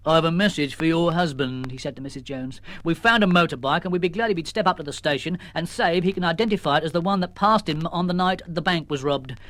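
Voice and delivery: lightly voiced sergeant; police sergeant. Sergeant delivering a message, lightly voiced. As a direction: official and plain.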